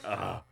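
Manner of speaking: soft, low winded "ugh"; retold exhausted sigh; out-of-air groan. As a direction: let out a spent little groan. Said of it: "I was, like, out of air".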